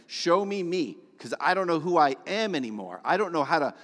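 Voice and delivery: a pleading shout in a jail cell; crying out to God. Retold or imitated. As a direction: cry out to God from the bottom. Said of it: "I was crying out saying".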